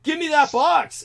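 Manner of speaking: a high replay of the demand, no real shout; milder retold demand. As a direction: repeat the order at plain volume. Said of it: "everything I was shouting at that guy".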